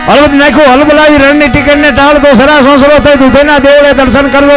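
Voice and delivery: rhythmic poem recitation. Acted. Storyteller reciting a rabari's earthquake poem to the crowd, building chant. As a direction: drive the rhyming lines like a bard, rising as the quake spreads.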